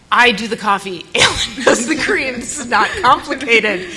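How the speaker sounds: loud, high, impatient explaining; exasperated. Retold or imitated. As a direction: lay it out like talking to a child, fed up. Exasperated repeat to coworker.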